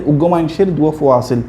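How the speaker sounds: Chittagonian example sentence; demonstrating Chittagong regional speech; Chittagong dialect. Shown as a demonstration. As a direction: say it as Chittagong locals do. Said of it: "এটাকে আমরা বলি".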